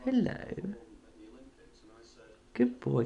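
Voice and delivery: very high sing-song hello; pet greeting. Real, not acted. Owner saying hello to a parrot, high pet talk. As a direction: pipe it up high like talking to a bird.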